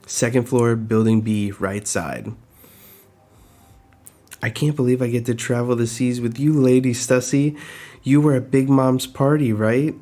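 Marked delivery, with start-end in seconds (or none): 4.4-9.9 gushing fan. Acted. Fan gushing over Lady Stussy.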